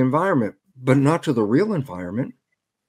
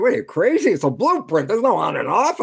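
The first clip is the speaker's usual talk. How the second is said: incredulous architect; 3 semitones higher than usual. Retold or imitated. Architect retorts in the story.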